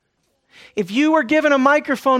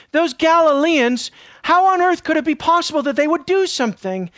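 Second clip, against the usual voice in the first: scornful disbelief; 6 semitones higher than usual. Pretend. Preacher voices the crowd scoffing at the Galileans, disbelieving. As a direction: sneer it like a snob who can't believe it. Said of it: "Those Galileans just did something".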